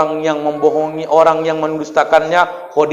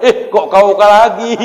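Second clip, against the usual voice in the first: surprised wife; 2 semitones higher, 3 dB louder, slower than usual. Retold or imitated. Wife meeting husband in heaven.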